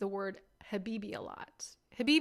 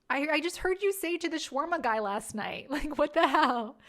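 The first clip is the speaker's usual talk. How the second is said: louder, half-laughing disbelief; incredulous laughing protest; 4 semitones higher, 4 dB louder than usual. Retold or imitated. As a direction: laugh it off in mock outrage. Incredulous retort to boyfriend.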